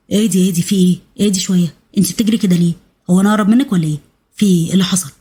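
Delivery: put-on low-pitched questioning of an out-of-breath girl; puzzled cousin.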